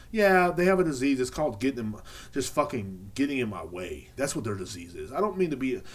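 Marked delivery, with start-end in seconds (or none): 0.1-1.2 scornful retort. Real, not acted. His own scornful retort.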